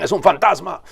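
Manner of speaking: high frightened cry of a ghost sighting; terrified cry. A narrator's reading. Disciples in the boat seeing a ghost, terrified cry. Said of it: "daban gritos de terror".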